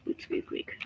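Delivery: squeaky kiss. Pretend. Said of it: "that was their kissing noise".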